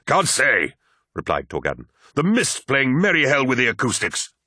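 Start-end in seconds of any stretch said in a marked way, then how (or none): 0.1-0.7 higher, urgent answer; raised-voice reply. A narrator's reading. Answering shout under fire. 2.1-4.3 high, urgent battlefield voice; raised-voice report. A narrator's reading. Reporting amid sudden gunfire.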